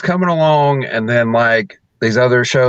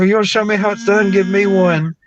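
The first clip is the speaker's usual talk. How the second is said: cocky retort; 6 semitones higher than usual. Retold or imitated. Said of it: "And I go".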